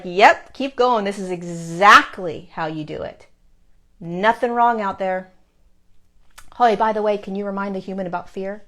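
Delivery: punchy approval, then a casual request; guides cheering on. Retold or imitated. Guides telling her all is fine, lightly imitated encouragement. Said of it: "That's how they speak".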